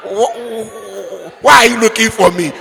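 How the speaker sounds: fast, mocking parrot of the boy; mocking mimic. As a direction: throw his words back at him, fast. Mother mocks the boy's reply.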